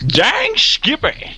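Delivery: drawn-out, high southern Dang Skippy; slow hammed-up southern drawl; southern accent. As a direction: stretch Dang Skippy slowly like a high-pitched hick. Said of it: "give it more of a southern accent there".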